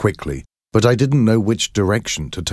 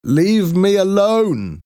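slow, much higher anguished cry; cornered man shouting at the mob; desperate shout; 13 semitones higher, slower than usual. A narrator's reading. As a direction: scream it as they drag you. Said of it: "I tried to shout".

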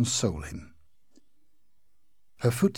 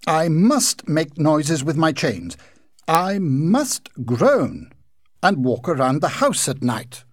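ghost's voice; 4 semitones higher, 6 dB louder than usual. A narrator's reading. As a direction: drag out the words like a weary haunting ghost.

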